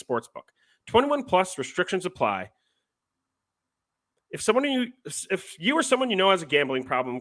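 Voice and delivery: reading out a betting ad disclaimer. Acted. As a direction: rattle through the legal fine print. Reads a sportsbook ad disclaimer.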